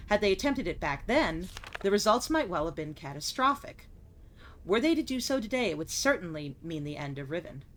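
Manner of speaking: measured, solemn journal reading; journal narration. Acted. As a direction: read it like a diary entry. Reads game journal aloud.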